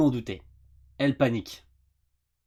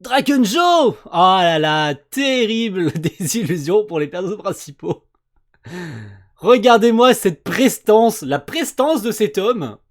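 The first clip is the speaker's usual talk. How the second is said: booming echoing villain monologue; 4 semitones higher, 10 dB louder than usual. Real, not acted. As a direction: boom it out like an announcer. Booming hype over villain.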